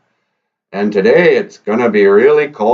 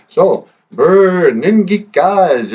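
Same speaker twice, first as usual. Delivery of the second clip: shivering cold; 7 semitones higher, 4 dB louder, slower than usual. Acted.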